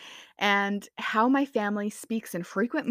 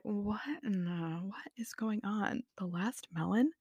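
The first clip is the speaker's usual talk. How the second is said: baffled passer-by; 9 dB quieter than usual. Retold or imitated. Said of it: "saw that were like".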